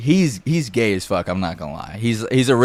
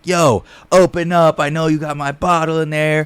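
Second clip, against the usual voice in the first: higher, insistent call through a door; mock demanding call; 5 semitones higher than usual. Bottle owner banging on the door, demanding. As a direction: lightly imitate someone demanding entry.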